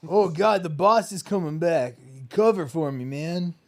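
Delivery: mock panic. Acting panicked employee bit.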